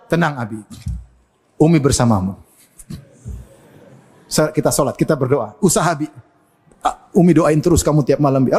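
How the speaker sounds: low, soothing voice of a supportive wife; reassuring wife. Acted. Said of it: "Harusnya istrinya bilang".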